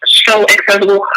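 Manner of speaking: high, breezy mock of a shallow witch post; sing-song it like a careless online guide; mocking airy voice. Mocking the Pinterest witch infographics, high and airy. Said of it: "that are like".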